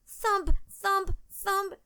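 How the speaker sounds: high-pitched thumps, the first loudest; imitated thumping. A narrator's reading. Narrator imitates a loud noise for Katie, high thumps. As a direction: sound out each thump separately. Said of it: "she heard a loud noise".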